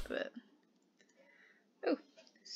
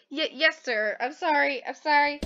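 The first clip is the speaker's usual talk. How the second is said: flustered stammer; 4 semitones higher than usual. Acted. Voices flustered student apologizing.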